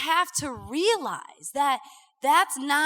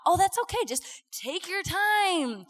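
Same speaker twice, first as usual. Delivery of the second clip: relaxed easygoing waiter; 5 semitones higher than usual. Retold or imitated.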